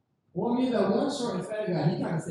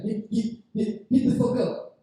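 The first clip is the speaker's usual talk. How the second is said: put-on high-pitched drunk; 4 semitones higher, slower than usual. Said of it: "his voice was so high pitched".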